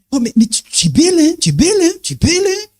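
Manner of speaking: high teasing flattering voice; mock flattery. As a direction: coo it like a smooth flatterer. Mocks flatterer's repeated compliment.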